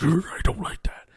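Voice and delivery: high, loud mock-whiny protest; petulant retort. Annoyed at a proverb, a high loud mock whine. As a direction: squeak it out like a grumpy kid. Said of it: "and I'm like".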